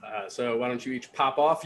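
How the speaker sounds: normal talking voice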